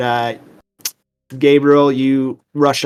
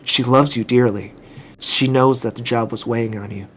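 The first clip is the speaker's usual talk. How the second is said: lightly voiced gentle therapist; understated, reassuring doctor; consoling doctor. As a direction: console a grieving patient, softening toward the end. Game master voices consoling doctor.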